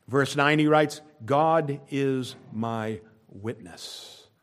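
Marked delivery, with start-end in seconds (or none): 1.2-4.2 very slow, soft, weighty and deliberate delivery. Speaker quotes a verse from Romans so listeners take it in, very slow. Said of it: "I say that slowly".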